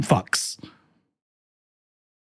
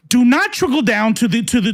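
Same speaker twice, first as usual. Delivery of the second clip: usual speaking voice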